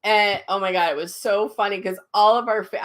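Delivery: usual speaking voice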